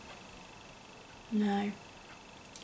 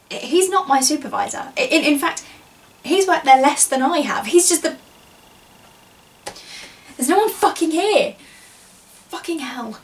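loud, higher-pitched irritation; indignant outburst; 3 semitones higher, 5 dB louder than usual. Acted. Employee ranting about a coworker who told them to smile, indignant. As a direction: rant indignantly, louder on the complaints.

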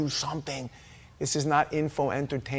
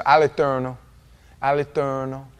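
All'Eterno with an Italian rolled r; 5 dB louder than usual. Shown as a demonstration. Preacher demonstrating All'Eterno, with an Italian roll. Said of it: "gotta have a little roll when you're Italian".

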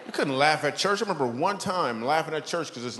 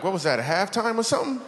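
put-on a seven-year-old puzzled; kid voice; 7 semitones higher than usual. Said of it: "I'm like".

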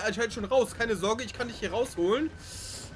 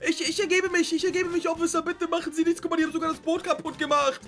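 higher, pleading, hammed-up fear; mock surrender; 6 semitones higher than usual. Player surrendering to the officer, pleading high. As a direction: beg the officer not to shoot.

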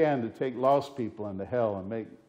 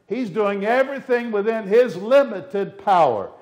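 limited hit hard and held; raised preacher stress on limited; 7 semitones higher, 8 dB louder than usual. Real, not acted. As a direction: lean on the word limited. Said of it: "I do emphasize the word limited".

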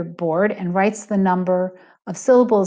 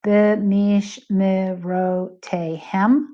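slow, drawn-out Hebrew word in an American accent; much slower than usual. Shown as a demonstration. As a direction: sound out B'mishmerotehem slowly with an American accent. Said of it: "An American accent might say".

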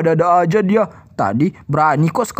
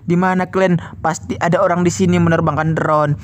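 lightly voiced prowling ghost; a touch lower, menacing spook; scheming Kuyang ghost; 3 semitones lower than usual. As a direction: plot like a hungry ghost. Villain ghost figure speaks.

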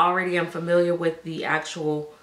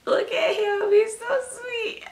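gushing coo. Real, not acted. Cooing at the sleeping doll.

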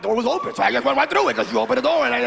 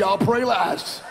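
slow and humble, half the pace; 3 semitones lower, much slower than usual. Shown as a demonstration. To the organizer, choosing to pray last, humbly and slowly. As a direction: say it with great humility, drawn out. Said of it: "With great humility".

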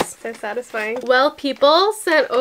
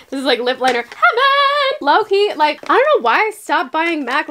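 1 excited gushing; 4 semitones higher than usual. Real, not acted. Gushing over lip liner haul.

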